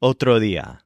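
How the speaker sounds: "otro día" with the D not fully pronounced; loose, half-made D in "otro día"; lazy D. Shown as a demonstration. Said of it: "as kind of a lazy D".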